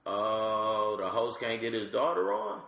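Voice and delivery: put-on high, bright little-girl voice; mimicking his three-year-old. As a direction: play a sassy toddler asking for stage time. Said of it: "She was like".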